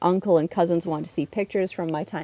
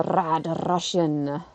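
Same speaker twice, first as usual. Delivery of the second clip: mock Russian accent; 2 semitones lower, much slower than usual. South Park wrestling character's name.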